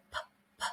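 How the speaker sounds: a crisp, aspirated "p", repeated; P sound demo. Shown as a demonstration. Teacher drilling the P sound for learners. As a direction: pop the "p" with a puff of air. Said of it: "try to make that sound a couple of times with me".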